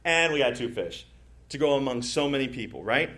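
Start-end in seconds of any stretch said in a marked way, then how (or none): 0.0-1.1 a little sarcastic. Retold or imitated. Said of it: "a little sarcastic".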